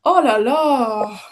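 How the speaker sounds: slow, drawn-out, disappointed Oh la la; unhappy oh la la. Shown as a demonstration. Lecturer demonstrating to students a French oh la la, let down and slow. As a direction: sigh out Oh la la as if let down. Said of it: "I'm kind of, you know, I'm not really happy".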